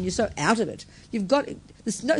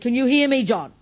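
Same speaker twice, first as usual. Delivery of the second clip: raised, louder retold call; higher and louder, checking that he hears; calling to the unconscious; 4 semitones higher, 4 dB louder than usual. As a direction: call out to rouse a patient. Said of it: "I read it really loudly".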